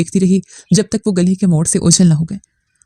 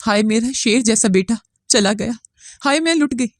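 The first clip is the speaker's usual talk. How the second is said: wailing lament; 3 semitones higher than usual. Acted. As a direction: wail it out, rising higher to the end. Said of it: "धाड़े मार मार कर रोने लगी".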